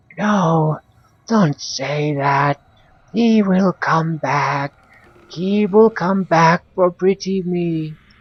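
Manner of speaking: witch voice softening to whisper. Voicing the witch answering her own outburst: witch softening to a whisper. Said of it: "her voice softening to a mere whisper".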